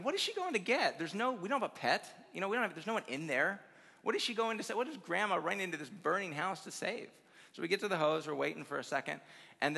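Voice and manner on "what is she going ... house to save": higher-pitched mock bewilderment; baffled thought. Grandchild wondering why Grandma ran inside, mildly hammed-up bafflement. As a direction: retell a kid's puzzled questioning.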